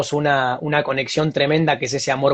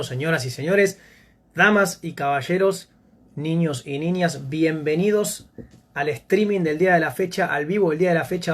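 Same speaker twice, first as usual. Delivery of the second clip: ringmaster; 2 semitones higher than usual. Acted. Formal show-style welcome to stream.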